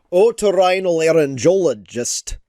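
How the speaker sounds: otorhinolaryngologist read out in full; reading a long word aloud. Shown as a demonstration. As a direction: sound out otorhinolaryngologist as o-to-rhi-no-la-ryn-go-lo-gist. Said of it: "words to teach Cam how to read".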